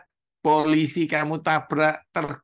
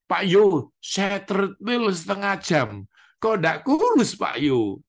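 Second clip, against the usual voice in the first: whiny congregant; 7 semitones higher than usual. Acted. Church member complaining to Pak Yo, high whiny voice. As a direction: whine to the pastor, pitched way up.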